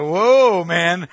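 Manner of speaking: surprised whoa. Retold or imitated. Reacting to seventies funeral outfits.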